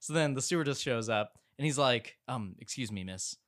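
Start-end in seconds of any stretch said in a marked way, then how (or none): 2.3-3.4 timid request. Retold or imitated. Passenger timidly asks stewardess.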